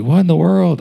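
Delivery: high-pitched baffled outburst; incredulous. Retold or imitated. Friend shocked by her defense of Mormons, incredulous. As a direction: react in mock disbelief, pitch up.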